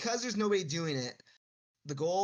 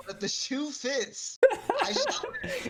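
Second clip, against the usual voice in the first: rising into a high, theatrical voice; playful grandiose vow of a villain; mock lofty voice; 10 semitones higher, 6 dB louder than usual. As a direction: proclaim it like a hammy nobleman. Mock grand acceptance of nickname.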